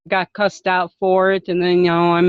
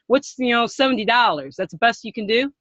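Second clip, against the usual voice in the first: lightly acted annoyed customer; mock annoyed rant; 3 semitones higher than usual. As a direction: play the irritated seller, not quite yelling. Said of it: "Do it again".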